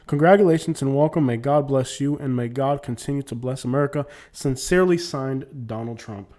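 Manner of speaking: ceremonial sign-off, falling away at the end; letter closing read aloud; formal letter reading. Acted.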